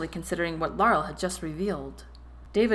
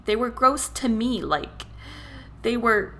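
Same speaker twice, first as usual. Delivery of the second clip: higher, louder, shaky voice; 4 semitones higher, 3 dB louder than usual. Acted. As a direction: voice shaking near tears. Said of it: "Her voice was shaky when she continued".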